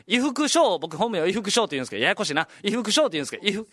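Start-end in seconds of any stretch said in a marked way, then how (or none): 0.0-0.8 raised-pitch announcer calling a competitor; lightly voiced event announcer. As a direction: announce the next competitor by name. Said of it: "出るときに、じゃあ".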